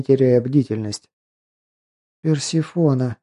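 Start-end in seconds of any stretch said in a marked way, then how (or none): 2.2-3.2 doomed resignation. Acted. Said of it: "с какой-то фатальной обречённостью".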